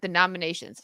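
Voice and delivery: talking with the hiccups. Real, not acted. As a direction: speak between hiccups. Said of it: "Excuse me, I got the hiccups".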